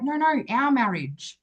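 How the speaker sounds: slow, high, leaning on our; retold correction; stress on our. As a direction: correct her by pushing our. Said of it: "He's like".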